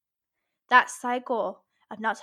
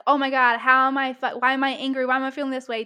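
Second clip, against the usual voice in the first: frantic energy; 5 dB louder, faster than usual. Retold or imitated. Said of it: "the difference in my energy when I'm like".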